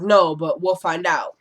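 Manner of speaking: slow, lightly imitated smooth detective; a touch of cool detective. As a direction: play it smooth like a TV detective, unhurried. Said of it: "tried to be smooth".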